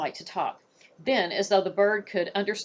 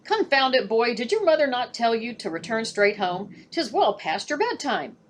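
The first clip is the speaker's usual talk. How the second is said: louder, higher, booming scold; booming father; 4 semitones higher, 3 dB louder than usual. Acted. Father booms at his son for staying out late. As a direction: boom at the boy from the doorway. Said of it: "a familiar voice suddenly boomed".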